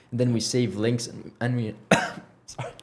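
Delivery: hoarse, voice giving out; losing voice. Real, not acted. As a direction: push through a failing hoarse voice. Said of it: "I'm losing my voice".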